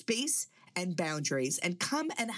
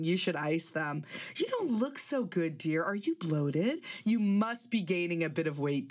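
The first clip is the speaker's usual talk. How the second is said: lightly voiced fussy mother-in-law, mock sweet; a hint of a doting, nagging grandma; mother-in-law impression. To her daughter-in-law, a mild mock-sweet mother-in-law voice. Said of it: "Booby starts up with her constructive criticism".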